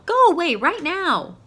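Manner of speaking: loud, high shout at Winter. A narrator's reading. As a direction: order him out at full voice. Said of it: "shouted Owl".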